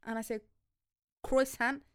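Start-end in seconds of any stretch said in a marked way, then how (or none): 1.2-1.8 "Croissant" said as kruh-SANT with a hard English t; deliberate mispronunciation. Retold or imitated. Ordering at a bakery, a deliberately anglicised croissant. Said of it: "I do it on purpose".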